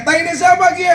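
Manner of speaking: Ngapak question. Retold or imitated. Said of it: "orang ngapak tanya".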